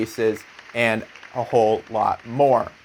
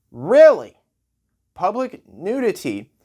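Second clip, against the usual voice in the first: loud, higher, disbelieving outburst; incredulous; 5 semitones higher, 4 dB louder, slower than usual. Pretend. Comedian scoffs at a public nudity ban, incredulous. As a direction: blurt it out in loud mock disbelief.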